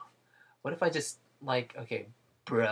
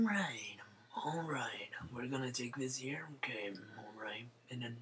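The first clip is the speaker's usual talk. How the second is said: whispering; 12 dB quieter than usual. Real, not acted. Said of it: "whispering to himself while drawing".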